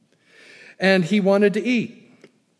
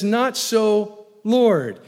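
protest; 5 semitones higher, 4 dB louder, much slower than usual. Acted. Peter's refusal quoted again.

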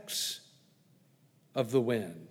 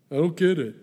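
louder, puzzled aside; confused Nicodemus; 6 dB louder, faster than usual. Acted. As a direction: play Nicodemus not getting it.

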